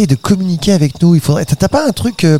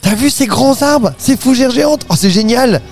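amazed; 5 semitones higher than usual. Acted. Marvelling at the giant ferns.

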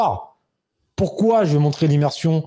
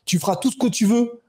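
retold yelling; 6 semitones higher than usual. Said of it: "en gueulant comme un malin".

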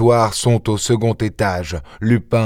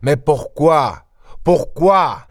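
raised, bewildered inspector, pourquoi slowed; baffled Ganimard; 6 semitones higher, faster than usual. Acted. Ganimard protests to his chief, baffled and raised. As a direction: wrestle with it, why now.

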